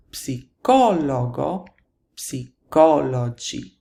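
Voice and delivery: "psicologo, psicologi" slowly, stress on CO; stress third from last. Shown as a demonstration. Teacher contrasting plural rules, slow stressed CO in "psicologo, psicologi". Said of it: "Third from the last".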